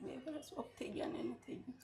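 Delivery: soft, whispery voice choked by crying; tearful. Real, not acted. Widow recounting two years since his death, crying. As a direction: let the voice fail into a tearful whisper. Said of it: "કેમ રડો છો બેન?".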